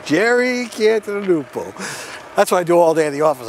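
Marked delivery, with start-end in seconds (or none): 0.0-1.7 mock announcer name call. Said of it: "I walk around going".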